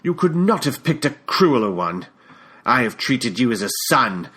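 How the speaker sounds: put-on wounded British accent, rising; a hurt father figure in a British accent; aggrieved British-accented complaint. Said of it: "in that British accent of his".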